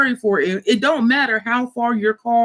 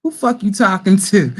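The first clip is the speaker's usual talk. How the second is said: mock outrage; 3 dB louder than usual.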